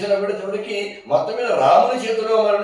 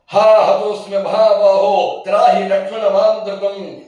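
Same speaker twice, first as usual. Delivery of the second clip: slow, high, loud wailing cry for help; a slow pleading death cry, pitched high; dying demon's cry; 5 semitones higher, 6 dB louder, slower than usual. Acted. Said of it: "లక్ష్మణుడి యొక్క గొంతును అనుకరించి".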